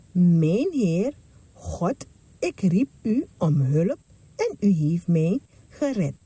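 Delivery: Mijn Heer God drawn out slowly for memorising; teaching children a verse, slowly and clearly; slow, deliberate recital. Shown as a demonstration. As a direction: say it slowly so the kids remember. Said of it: "Nog een keer, goed onthouden".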